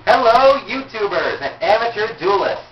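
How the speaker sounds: loud, processed announcer greeting; voice changer. Pretend. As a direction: boom it out through a voice changer. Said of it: "This is my voice changer. That's amplifying my voice".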